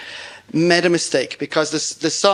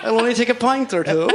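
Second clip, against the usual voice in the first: high, laughing mock vampire lure; hammed-up vampire; 7 semitones higher than usual. Guest plays Dracula luring the host, high and laughing. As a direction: ham up a giggling Dracula asking for your neck.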